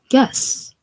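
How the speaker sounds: high playful whisper; teasing whisper. Acted. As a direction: tease him with a hushed guess. Teasing him about perfume.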